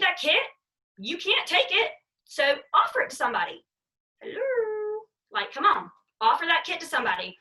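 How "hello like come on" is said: a mild, whiny come-on; exasperated plea. Real, not acted. To her team about unused kits, a mild exasperated plea. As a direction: plead with them, half laughing.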